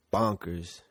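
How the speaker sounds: slow, stretched "bonkers" with falling tune; drawn out. Real, not acted. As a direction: drag out "bonkers" slowly. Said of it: "I said it, like".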